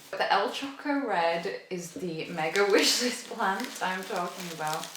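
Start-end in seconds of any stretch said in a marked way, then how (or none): none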